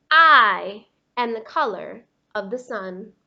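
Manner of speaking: a loud, emphatic claim; loud insistence. Acted. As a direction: bang the point home for the crayon. Crayon insisting in a quarrel.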